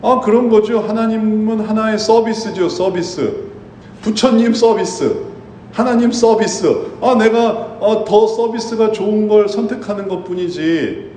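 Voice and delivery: lightly played skeptic pushing back; defiant retort. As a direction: shrug it off like a customer choosing a service. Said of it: "반문합니다".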